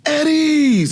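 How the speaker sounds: drill sergeant bark. Retold or imitated. Drill sergeant entering the laundry room, barked call. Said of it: "They say".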